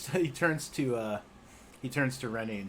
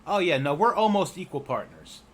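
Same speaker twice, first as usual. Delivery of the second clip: higher, louder eager goblin voice; quick cheerful goblin reassurance; goblin Rennie; 8 semitones higher, 10 dB louder than usual. Acted. Rennie reassures Lily, higher and louder.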